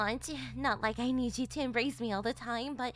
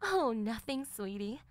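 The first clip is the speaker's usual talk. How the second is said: a lightly lowered, teasing mother's voice; teasing mom; 3 dB quieter, slower than usual. Acted. Mother teasing her daughter in front of the boyfriend, lightly lowered voice. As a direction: play the amused mother scolding her daughter.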